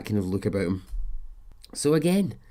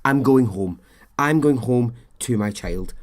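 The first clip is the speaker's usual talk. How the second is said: mild mock shout, louder; 6 dB louder than usual. Suspect yelling at police that she's going home, mock shout. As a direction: retell her yelling at the police. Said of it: "She starts shouting at the police".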